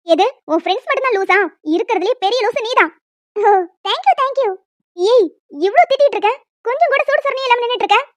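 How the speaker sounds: loud, insulting scolding; angry sister. Acted. Elder sister insulting the costumed girl, loud. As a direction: rip into her shamelessness.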